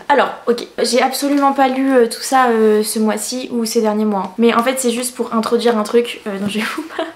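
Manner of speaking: cheesy youtuber voice. Acted. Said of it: "cette youtubeuse en carton que je fais".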